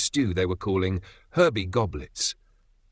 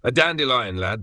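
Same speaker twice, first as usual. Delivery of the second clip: proudly; 4 semitones higher, 3 dB louder than usual. Acted. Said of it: "the officer said proudly".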